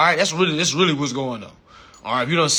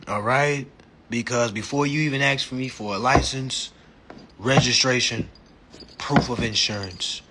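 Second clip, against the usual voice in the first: cool, measured lecture to an officer; unhurried, lower mock politeness; calm, collected; 4 semitones lower than usual. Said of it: "be calm, cool, collected".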